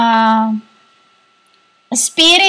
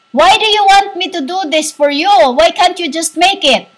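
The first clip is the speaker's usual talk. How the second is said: put-on boyish voice; 4 semitones higher than usual. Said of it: "answer them like, a little, a boyish".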